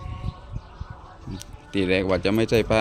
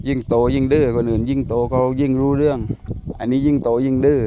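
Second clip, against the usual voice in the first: exasperated complaint; 2 semitones higher, 6 dB louder than usual. Real, not acted. Complaining about stubborn dog.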